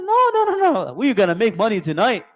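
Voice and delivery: mock the greedy trader, laughing over his luck; gleeful greedy laugh. Preacher imitates the trader laughing about selling Yusuf. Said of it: "He goes".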